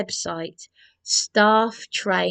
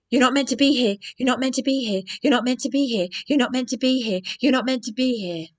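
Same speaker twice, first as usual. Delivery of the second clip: a mildly raised, repeated mock scold; imitating the receptionist; 4 semitones higher, 3 dB louder, much faster than usual. Receptionist Nikki repeating herself at the door, mock scold. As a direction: parrot her stuck-record telling-off. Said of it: "That is how she spoke to me".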